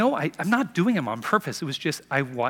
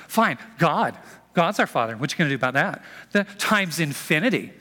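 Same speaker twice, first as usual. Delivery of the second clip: smug comeback. Retold or imitated. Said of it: "Like, okay".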